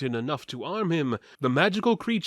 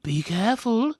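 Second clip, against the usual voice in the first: higher, wary thief; a warning with a knife drawn; thief's voice; 8 semitones higher than usual. Acted. Thief Kavine warns the party off the skeleton, higher. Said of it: "Kavine the thief said".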